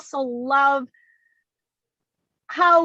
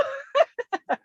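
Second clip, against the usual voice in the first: 1 high flattered laugh; 12 semitones higher than usual. Real, not acted. Guest flattered by praise.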